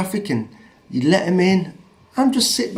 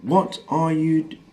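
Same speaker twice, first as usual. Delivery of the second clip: slow, measured mock challenge; quoted insult, word by word; slower than usual. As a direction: space the words out deliberately. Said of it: "the exact words he said to me".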